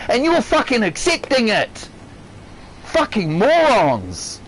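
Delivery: real, defiant, emphatic rant; angry rant. Real, not acted. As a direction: rant with full conviction, leaning hard on the swearing. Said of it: "that's my rant".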